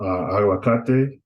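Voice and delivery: "aguacate" stressed on "ca". Shown as a demonstration. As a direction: put the weight on "ca" in "aguacate". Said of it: "emphasis is gonna be on ka".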